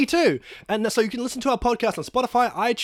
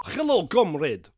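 put-on Russian accent; slower than usual. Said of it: "what kind of Russian are you".

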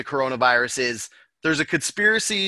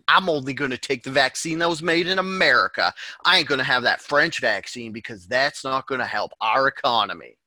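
a light mock American accent. Mocking a patriotic American vaccine buyer in an American accent. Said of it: "so I can do that accent".

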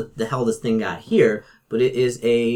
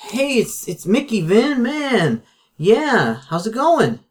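high, fast, jittery caller; nervous Mickey; 8 semitones higher, 5 dB louder than usual. Acted. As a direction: stammer through it, pitched way up. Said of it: "Does he sound nervous?".

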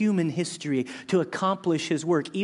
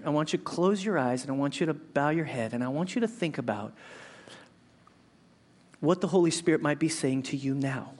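prayer reflection. Acted. Pastor leading the congregation into prayer.

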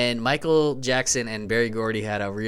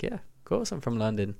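mock British accent; 10 dB quieter than usual. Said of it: "I spoke with a British accent".

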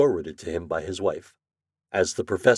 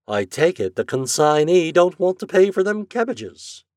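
high, raised-voice grievance; reproachful; 9 semitones higher, 5 dB louder than usual. A narrator's reading. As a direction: address the slammed door with reproach. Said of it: "looked at the door reproachfully".

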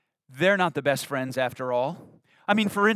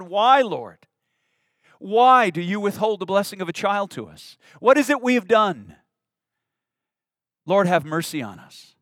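pleading prayer; 4 semitones higher, 3 dB louder than usual. Acted. Couple's years of crying out to God.

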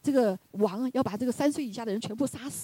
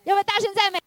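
high, loud call to the crowd; preacher urging loud praise; loud rallying question; 11 semitones higher, 6 dB louder than usual. Real, not acted. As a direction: rouse them to praise loudly. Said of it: "所以我们敬拜赞美时".

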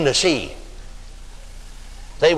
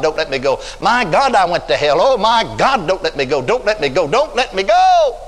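mock panic. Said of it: "That fellow was in panic".

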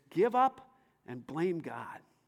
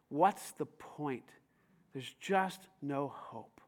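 mock hopeless; 7 semitones lower, 6 dB quieter, slower than usual. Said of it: "you say things like this".

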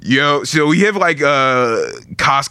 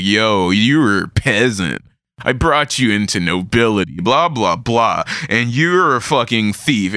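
drawn-out speech; slower than usual. Retold or imitated. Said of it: "giving him this long, drawn speech".

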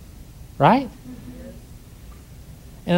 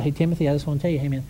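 gentle calm; 4 dB quieter, faster than usual. Retold or imitated. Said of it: "for the third time".

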